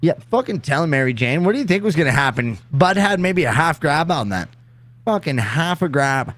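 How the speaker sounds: lively Canadian slang delivery; Canadian accent. Acted. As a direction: heckle like a Canadian buddy. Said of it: "very goddamn Canadian sounding thing when you say it".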